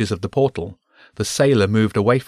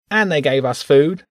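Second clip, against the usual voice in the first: high, whiny rat begging for food; pitched-up little rat, pleading; whining rat; 7 semitones higher, 4 dB louder than usual. Acted. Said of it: "the rat whined".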